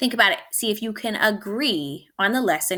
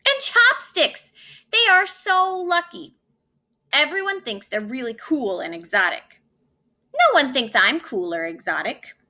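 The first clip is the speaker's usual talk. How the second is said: envious whine; 4 semitones higher than usual. Acted. Spoon envies Chopsticks.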